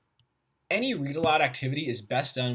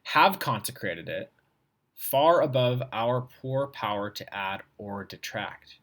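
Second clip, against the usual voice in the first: reading aloud; slower than usual. Shown as a demonstration. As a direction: read it out like a formal text.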